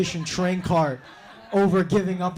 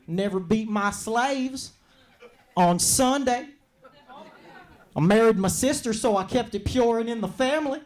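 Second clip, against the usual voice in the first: outraged slave owner; 6 semitones higher than usual. Retold or imitated. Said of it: "And he's like".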